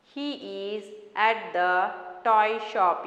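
slow, word by word reading; slow dictation. Shown as a demonstration. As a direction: read it slowly for children to follow. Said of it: "keep your fingers".

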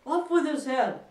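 high, very loud royal shriek; enraged queen's yell; furious shouting. A narrator's reading. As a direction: shout the death sentence in a fury. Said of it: "went stamping about and shouting".

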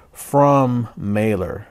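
slow, drawn-out robotic announcement. Pretend. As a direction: read it like an automated phone system. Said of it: "like in a robotic voice".

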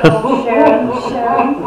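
exclaiming. Real, not acted. Exclaiming at friend's remark.

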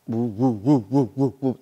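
soft low woo woo; low hooting wave sound. Shown as a demonstration.

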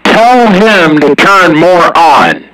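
high, cackling impression of a distant CB caller; imitating another radio caller. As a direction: mimic the guy on the radio, laughing through it. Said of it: "And then I hear".

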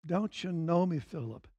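tender hushed rebuke to a close friend; quiet tender repeat. Acted. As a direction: let it fall away, barely above a murmur. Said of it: "politely, clearly, accurately".

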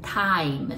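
"time" with the tongue up for a crisp t; touch the tongue up for the t in "time"; t sound demo. Shown as a demonstration. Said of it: "舌を上につけて".

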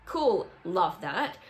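slow, dry sarcastic cool; mock-sarcastic love that. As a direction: drag it out, unimpressed.

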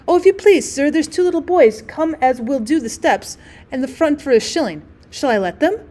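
breathless servant announcing news; excited maid voice. Acted.

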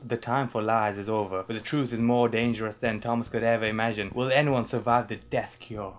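lightly done American blurb read; shoddy American accent. Shown as a demonstration. Finishing the book blurb aloud, shoddy American accent. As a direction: attempt an American accent, imperfectly. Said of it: "shoddy American accent".

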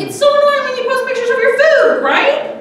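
fake-friendly jab, cracking up; giggling sarcastic quip; laughing mock question. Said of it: "and I was like".

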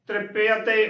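ਤ੍ਰਿਪਯ ਤੇ as "trip-pe-a-te"; ਤ੍ਰਿਪਯ ਤੇ with every vowel sounded; shown pronunciation. Shown as a demonstration. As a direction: open the half y in ਤ੍ਰਿਪਯ ਤੇ to e-a. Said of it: "ਉਚਾਰਨ ਕਰਨਾ ਹੈ".

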